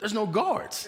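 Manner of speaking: high, loud amazed tone with a laugh.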